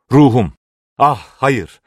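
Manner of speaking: high, loud exclamation; old man's agitated outcry; agitated cry. A narrator's reading. Raving old man cries out.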